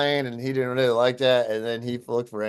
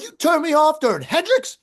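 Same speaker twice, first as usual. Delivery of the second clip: high, loud, incredulous outrage; indignant yell; 5 dB louder than usual. Retold or imitated. Guitarist confronting manager who cut him off mid-song, indignant yell. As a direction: re-enact an offended drunken rocker yelling. Acting out his drunken outrage.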